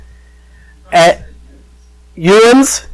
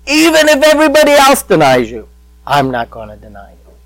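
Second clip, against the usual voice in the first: Peter's protest; 3 semitones higher, faster than usual. Retold or imitated. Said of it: "'Cause Jesus had said".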